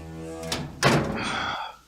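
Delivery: loud, long exhale; heavy breath out. Acted. Left alone after shouting, heavy sigh. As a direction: let out a big rush of breath.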